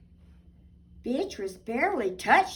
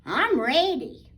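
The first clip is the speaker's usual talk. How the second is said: with a smile; 3 semitones higher, 6 dB louder than usual. Acted. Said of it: "with a smile".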